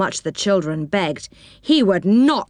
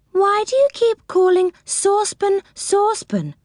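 high, dainty doll voice; a proper little doll, puzzled; prim doll; 14 semitones higher than usual. Acted. Well-dressed doll asks.

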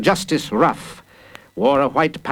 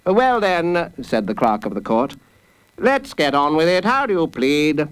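somewhat higher, businesslike clerk; lightly voiced court clerk; 5 semitones higher than usual. Clerk asking the accused for a plea, matter-of-fact. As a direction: move proceedings along as the clerk.

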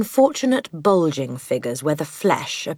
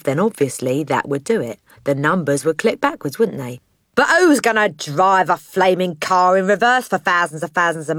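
boastful crooked father. Acted. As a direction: brag like a wheeler-dealer dad.

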